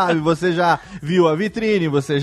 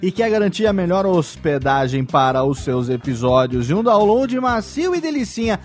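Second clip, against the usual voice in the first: ad read; 3 semitones higher than usual. Acted. Leitura de anúncio.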